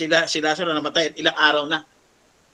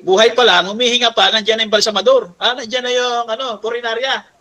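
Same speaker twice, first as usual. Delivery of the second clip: louder, higher, pressing each phrase; preaching at full force; 5 semitones higher, 5 dB louder than usual. Real, not acted. Preacher railing against eager embalmers, louder and higher. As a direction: drive it home to the congregation.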